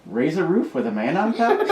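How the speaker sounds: high voice, breaking into laughs; puzzled, laughing. A narrator's reading. Little brother garbling words, laughing. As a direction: ask it, giggling. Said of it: "puzzled Davin".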